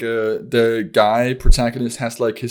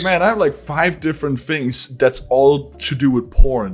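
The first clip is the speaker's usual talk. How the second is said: laughing disbelief; 3 semitones higher than usual. Retold or imitated. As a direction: giggle through the disbelief. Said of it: "I was like".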